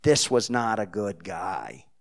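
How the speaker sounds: "This was not a good guy" repeated slowly at normal volume; slow, low-key Jersey accent. Retold or imitated. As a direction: drop back down and drag it out. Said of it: "in her broken Jersey accent".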